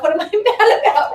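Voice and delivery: laughing disbelief. Retold or imitated. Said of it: "I remember thinking to myself".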